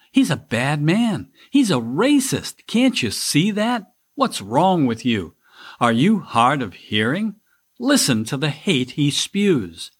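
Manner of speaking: hammed-up incredulous scolding, pitch leaping on key words; mock exasperated friends. Family pestering him about his vote, mock exasperated scolding. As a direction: mimic the pestering relatives, half mocking. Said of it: "they say".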